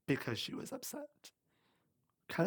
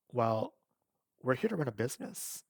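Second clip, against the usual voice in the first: understated, businesslike delivery; matter-of-fact. Retold or imitated. Boss explaining priorities to employee, matter-of-fact. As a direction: state it simply, like settled fact. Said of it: "she said very matter-of-factly".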